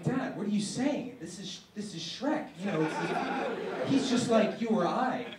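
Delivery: laughing while pleading with dad. Acted. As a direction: plead through giggles. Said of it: "And I'm like".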